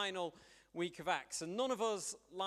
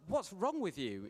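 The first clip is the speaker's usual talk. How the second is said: exasperated; 3 semitones higher than usual. Retold or imitated. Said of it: "And I was like".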